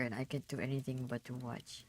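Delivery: drowsy, half-asleep mumble; words slurring as sleep takes over; nodding off. Real, not acted. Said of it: "I dozed off".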